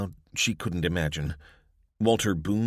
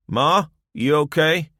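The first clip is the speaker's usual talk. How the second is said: loud high call from the hallway; 11 semitones higher, 9 dB louder than usual. A narrator's reading. Son calling out to his ma from the hallway, loud. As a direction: call out to your mother, worried.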